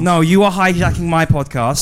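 "are" stressed in an indignant retort; contradicting, with "are" punched. Acted. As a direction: lean hard on "are" to throw it back. Throws the accusation back, stressing ARE.

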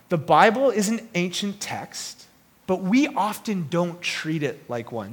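slow, deliberate restatement; weighty and drawn out; slow emphatic repeat. Real, not acted. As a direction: say it again slowly, letting each phrase land.

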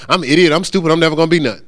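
mock-submissive echo, dropped from the insult; meek parroting. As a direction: accept the put-down and repeat it obediently. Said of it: "You go".

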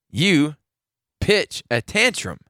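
slow, word by word with pauses; deliberate emphasis. Real, not acted. Host scolding a star player for tantrums, slow and emphatic. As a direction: spell out the accusation, pausing between phrases. Repeats charge slowly for emphasis.

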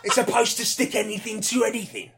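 mildly frustrated villain; frustrated Trapster. Acted. Trapster defending his state-of-the-art paste, mild frustration. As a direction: insist on it with building exasperation. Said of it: "channeling the frustration of my character".

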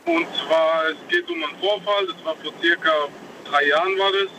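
distant caller on car speakerphone; car hands-free phone. Real, not acted. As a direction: voice far from the phone mic. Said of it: "Ich höre dich, aber ich höre dich schlecht".

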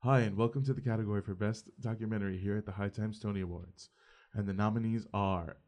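lightly put-on presenter voice; measured, formal awards-host delivery, a little acted; actory voice. Announcing best documentary at an awards show, best actory voice. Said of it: "so my best actory voice".

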